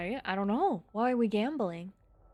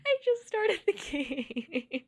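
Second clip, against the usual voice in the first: high, drawn-out squeal between laughs; laughing protest; 10 semitones higher, 4 dB louder, much slower than usual. Real, not acted. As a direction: insist on it through giggles, stretching the words. Joking about having just started.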